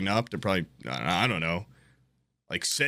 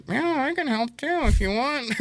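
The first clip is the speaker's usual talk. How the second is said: mock polite offer; 13 semitones higher than usual. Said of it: "I'd be like".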